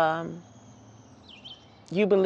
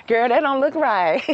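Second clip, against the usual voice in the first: a doubtful female bird, higher and louder; doubtful hen; 5 semitones higher, 5 dB louder than usual. Pretend. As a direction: shake your head at the fight. Hen gossip continues.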